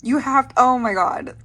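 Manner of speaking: loud, high excited squeal. Real, not acted. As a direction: squeal it at a friend. Fangirl squeal continues.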